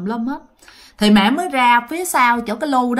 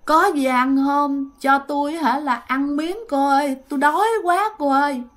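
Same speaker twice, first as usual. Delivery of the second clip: moaning ghost woman; 2 semitones higher than usual. Retold or imitated. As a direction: beg for food in a weak, moaning ghostly voice. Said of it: "bả vừa xin mà bả vừa rên".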